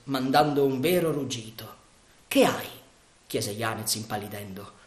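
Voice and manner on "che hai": alarmed question. Acted. Yanez startled, turning pale.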